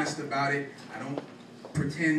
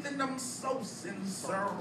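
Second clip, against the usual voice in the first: hushed sincerity; 7 semitones higher, 8 dB quieter, slower than usual. Acted. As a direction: let the line sink softly and slowly. Poem line falls away quietly.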